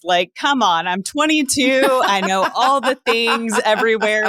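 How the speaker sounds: put-on scoffing, know-it-all twenty-two-year-old; cocky young self. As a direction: brush it off with smug certainty. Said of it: "me at twenty-two was like".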